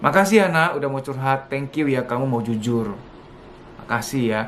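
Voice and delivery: tender thanks. Shown as a demonstration. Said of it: "dan itu luar biasa".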